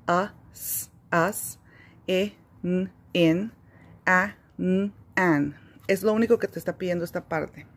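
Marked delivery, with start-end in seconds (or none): 0.1-5.6 letters sounded, then blended into a word; sounding out letters. Shown as a demonstration. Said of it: "aquí igual".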